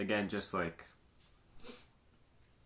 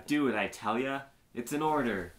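raised, louder voice imitating an angry command; mock angry order; 5 semitones higher, 6 dB louder than usual. Retelling the deputy scene, imitated pissed-off order. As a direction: act out a pissed-off officer's order. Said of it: "like he's getting super pissed off".

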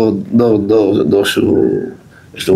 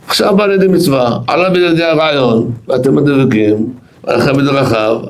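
raised pitch, imitating an excited rabbi; retold excitement; 4 semitones higher than usual. Rabbi explaining the commandment that just came his way, retold excitement. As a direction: retell his eager realisation in a higher voice. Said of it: "מרוב שהתרגש הוא צעק".

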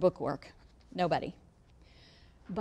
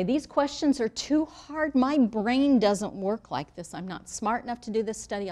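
mock whiny student; 4 semitones higher, 6 dB louder than usual. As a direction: act out a flustered student who thinks she's not smart enough. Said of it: "and someone will say".

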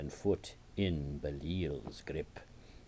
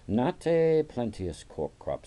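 high, loud mock of a tedious monk; mocking mimicry; 8 semitones higher, 9 dB louder than usual. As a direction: parody a dull dinner companion, high and loud. Mimics rival monk's table talk.

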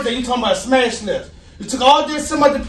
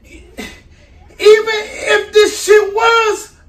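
heated shout; 5 semitones higher, much slower than usual. Real, not acted. Boyfriend arguing back hotly.

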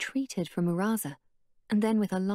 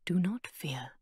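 calming voice; 2 semitones lower than usual. Acted. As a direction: gently settle the frightened children. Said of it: "in a calming voice".

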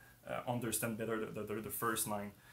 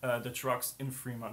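hoarse voice; 2 semitones higher, 4 dB louder than usual. Real, not acted. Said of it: "I'm losing my voice right now".

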